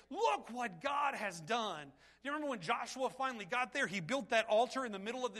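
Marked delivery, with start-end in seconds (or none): 0.1-1.9 joyful exclaim. Retold or imitated. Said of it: "you hug your wife and you say".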